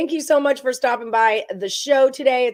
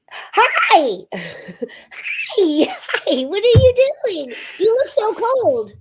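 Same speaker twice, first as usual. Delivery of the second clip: high squealing hello to a guest; excited greeting; 10 semitones higher, 5 dB louder, much slower than usual. Real, not acted. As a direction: greet them with a delighted shriek.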